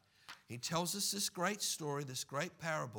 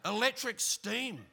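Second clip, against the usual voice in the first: higher, amused puzzled question; mock puzzled wonder; 7 semitones higher, 4 dB louder than usual. Driver at the lights wondering at vape clouds, mock puzzled. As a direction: ask it in mock amazement. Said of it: "And you think".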